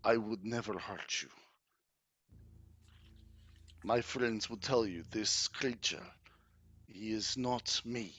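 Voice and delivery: lightly voiced courtly vampire count, pleading. Count begging Lady Irina not to fear him, courtly plea. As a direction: play an earnest count with measured pauses.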